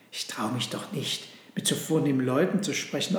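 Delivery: a touch of faint-hearted Joseph; disheartened. Acted. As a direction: shrink back, not daring. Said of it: "erwiderte Josef verzagt".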